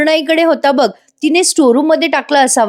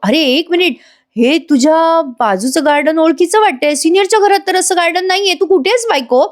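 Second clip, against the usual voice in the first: higher, puzzled husband voice; suspicious husband; 5 semitones higher than usual. Acted. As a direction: work it out aloud, curious and teasing. Arjun suspects something on call. (बायकोला फोनवर विचारणारा नवरा, कुतूहलाने उंच आवाजात)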